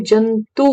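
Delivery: जंतु with the final उ drawn out; अंतिम उ पर ज़ोर. Shown as a demonstration. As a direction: hold the last vowel of जंतु to show the उ. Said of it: "उ, छोटी उ". (जंतु का आख़िरी उ खींचकर)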